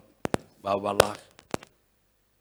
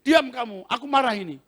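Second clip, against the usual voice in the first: loud, higher angry order; angry command; 10 semitones higher, 8 dB louder than usual. Retold or imitated. Preacher angrily silencing the spirit, loud. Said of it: "Marah saya".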